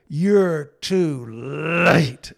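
a low, held-in scream of anger; muffled scream. Retold or imitated. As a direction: son pounding his thighs, screaming at his father. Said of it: "kinda screamed, low muffled scream".

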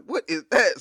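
sudden alarmed question from the driver's seat; startled question. Retold or imitated. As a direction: jumps at a strange noise. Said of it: "and I'm like".

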